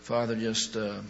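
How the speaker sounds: steady earnest prayer voice. Real, not acted. Pastor closing the service with the congregation, earnest prayer. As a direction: pray for the room in calm earnest tones.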